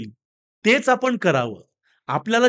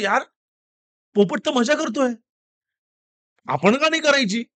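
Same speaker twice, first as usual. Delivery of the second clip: higher-pitched musing to himself; lightly voiced dog getting an idea; dog thinking; 6 semitones higher than usual. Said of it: "आणि तो विचार करतोय". (विचार करणाऱ्या कुत्र्याचा हलका आवाज)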